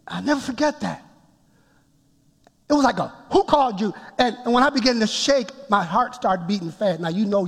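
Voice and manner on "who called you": higher-pitched retold rebuke; mock mad voice. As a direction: demand it as an angered God. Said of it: "Like he was mad".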